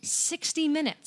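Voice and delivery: slow, hushed whisper of disbelief. Real, not acted. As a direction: breathe it out in a stunned whisper. Whispered repeat of the wait time.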